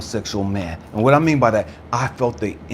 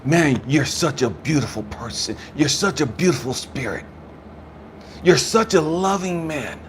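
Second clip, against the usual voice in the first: heartfelt praise; 5 semitones higher than usual. Retold or imitated. Store man blessing the grieving widower, increasingly impassioned. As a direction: pitch climbing with each compliment.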